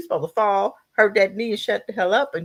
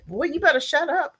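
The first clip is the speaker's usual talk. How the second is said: stern parent; 9 semitones higher than usual. Retold or imitated. Parent silencing boy.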